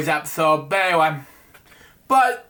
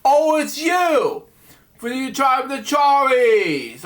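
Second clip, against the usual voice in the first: higher, slow, eager welcome; excited greeting; 4 semitones higher than usual. Acted. Waiter greeting the customer, slow and excited. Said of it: "instead of just saying".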